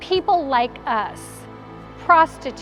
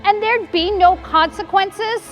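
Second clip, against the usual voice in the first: agitated, rising rhetorical questions; worked-up, disbelieving tirade; incredulous self-reproach. Acted. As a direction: berate yourself in disbelief. Mary berates herself in disbelief.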